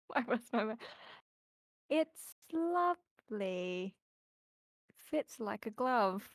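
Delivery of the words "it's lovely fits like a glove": slow, drawn-out, careful compliment; strained politeness. Acted. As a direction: stretch the praise out haltingly. Awkwardly praising dress to waiting seamstress.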